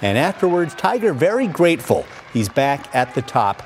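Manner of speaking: lively highlight narration, calling each shot; golf commentator. Acted. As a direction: call the golf highlights like a broadcaster. Narrates golf highlights over footage.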